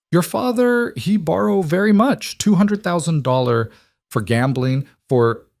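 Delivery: put-on Russian enforcer, high and clipped Eastern European accent; Russian thug explains the debt in a thick Eastern European accent. A narrator's reading. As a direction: menace under politeness, heavy Eastern European accent. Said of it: "The accent was thick, Eastern European".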